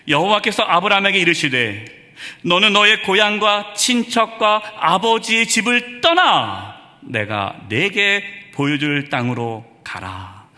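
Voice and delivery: slow, weighty reading of God's call, fading at the end; the preacher intones God's word to Abraham, slow and grave; solemn scripture reading. Acted. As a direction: read each phrase like a holy command.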